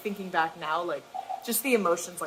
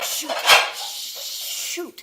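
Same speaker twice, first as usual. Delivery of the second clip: high, breathy whispered curse held back; exasperated whispered shoot; 9 semitones higher than usual. Retold or imitated. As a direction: hiss it under your breath like a swallowed swear. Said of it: "'cause I'm like".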